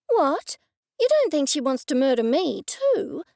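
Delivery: sudden fright in the voice; alarmed. A narrator's reading. Narrator alarmed at murder threat.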